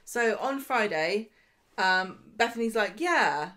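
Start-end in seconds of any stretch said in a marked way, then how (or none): 3.0-3.5 louder, condescending mock agreement; patronising. Co-host voicing Bethany accepting the job, patronising. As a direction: imitate someone agreeing with condescension. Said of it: "in, like, a really kind of patronising way".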